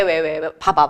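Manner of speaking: normal talking voice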